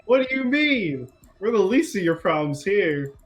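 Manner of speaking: high-pitched opening, settling back down; mildly indignant in-character comeback; feigned misunderstanding. Acted. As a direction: play innocent, as if misunderstanding the challenge. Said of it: "I'm going to be like".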